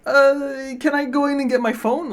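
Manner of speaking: lightly acted call back; retold yell. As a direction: call out the question without full volume. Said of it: "And I yelled".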